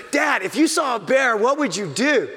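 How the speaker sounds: put-on high, loud eager child asking dad; a small son shouting up at his dad; excited kid voice. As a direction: play the little boy, all excitement. Dad voices young son's question.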